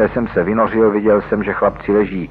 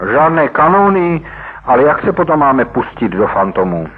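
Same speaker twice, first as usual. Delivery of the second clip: much higher, loud question on kanóny; astonished echo; 8 semitones higher, 4 dB louder than usual. Acted. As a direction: echo it back in disbelief. Chlapci užasle opakují Nickyho slova. (chlapci užasle: žádné kanóny?)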